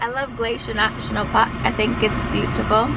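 lightly attempted, muddled British-style accent; uncertain put-on accent. Guest praises Glacier to host, wobbly put-on accent. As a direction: try a fake accent without committing. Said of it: "I don't know what accent I'm talking in".

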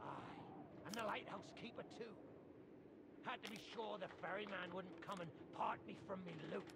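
hushed confession. Acted. Pirate confides dark past.

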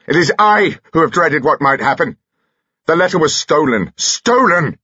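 high, agitated cry of protest; anguished outburst. Acted. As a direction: cry it out, peaking on the last word. Carados continues his shouted outburst.

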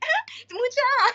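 high, rapid mock exclaim; mocking friends' loud giggly cry; fast giggly exclaim. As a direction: rattle it off giggling. Imitating friends' loud chatter.

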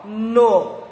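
"Divino" split into Di, vi, no with gaps; syllable-by-syllable. Shown as a demonstration. Teacher joining syllables for the class, spaced out. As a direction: sound out "Divino", last syllable held. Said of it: "a junção dessas sílabas".

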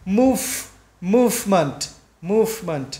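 "Move" with the final v clearly held; sounded consonant. Shown as a demonstration. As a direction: keep the v in "movement" audible. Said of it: "các bạn đánh mất cái âm này". (đọc rõ âm v trong "movement")

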